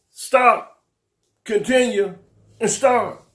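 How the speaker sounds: mocking recap. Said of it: "will talk like that".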